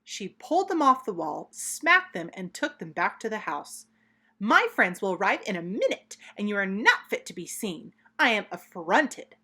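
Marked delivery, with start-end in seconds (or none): 4.4-9.4 louder, indignant scolding; mother cat scolding her naughty kittens, louder; affronted mother. Acted. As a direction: scold the kittens in mild outrage. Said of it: "said Miss Tabitha Twitchit".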